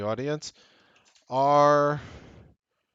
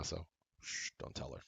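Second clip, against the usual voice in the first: much softer, almost whispered secret; conspiratorial hush; 5 semitones lower, 14 dB quieter than usual. Pretend. Husband begging viewers not to tell his wife, hushed. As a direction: lean in and keep it from the wife.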